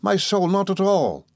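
high, slow cheery reassurance; cheerful. A narrator's reading. Lover reassures his frightened fiancée, cheerful. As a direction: brush the worry away cheerfully, drawn out and high. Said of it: "said I cheerfully".

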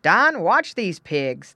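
loud, slow order to the dog; firm command. Acted. Farmer putting dog on guard, commanding. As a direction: give a loud, drawn-out command.

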